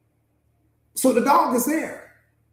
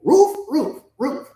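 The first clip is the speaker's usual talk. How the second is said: spoken woofs, short and higher; half-hearted guard dog barking in words; token dog barks; 3 semitones higher, slower than usual. Acted. Dog giving the owners just three barks, half-hearted. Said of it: "three barks out of me".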